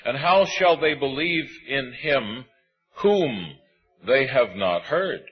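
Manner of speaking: measured, solemn reading of scripture. Acted. Preacher reading Romans to the congregation, solemn and measured.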